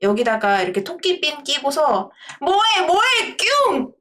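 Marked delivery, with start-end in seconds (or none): 2.4-3.9 much higher, sing-song cutesy aegyo voice; cute bunny act. Pretend. Streamer promising viewers a bunny-pin act, squeaky cute aegyo. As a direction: coo it like a bunny-pin idol. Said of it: "이렇게 언젠가 한번 해드릴게요".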